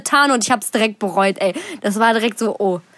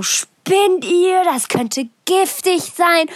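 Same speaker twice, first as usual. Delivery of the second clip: higher, alarmed mother scolding, last words slow; shocked mum; 8 semitones higher, much slower than usual. Retold or imitated. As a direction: mum horrified at the kids' chocolate. Mum scolds kids about chocolate. (erschrockene Mutter, höher, das Ende langsam)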